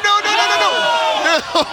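high, drawn-out alarmed no. Real, not acted. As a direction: stretch out the worried noes. Watching a handstand go wrong.

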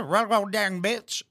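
mocking, dragged-out mimicry of slurred words; garbled-speech imitation. Host mimics the woman's garbled insult, mocking imitation. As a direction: stretch the mangled words out slowly. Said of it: "What did you say there?".

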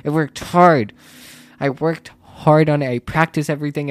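pleading with the teacher about the grade; upset retelling. Retold or imitated. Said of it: "And I said".

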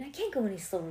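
ordinary delivery

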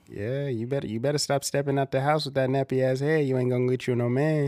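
lightly voiced scolding grandma; old grandma impression. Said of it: "some of them old grandmas".

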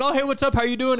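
high, sing-song mock hello; friendly client greeting. Imitating the client walking up, high friendly greeting. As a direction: greet them in a chirpy high voice.

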